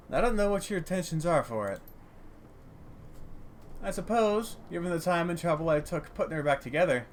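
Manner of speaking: gruff but well-meaning old tinkerer, lightly played; lightly voiced old junk dealer. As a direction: act loath to part with it.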